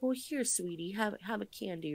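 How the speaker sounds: lightly voiced doting grandmother; sweet grandma. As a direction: coo at the child like a spoiling aunt. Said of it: "the grandmother or the aunt who will be like".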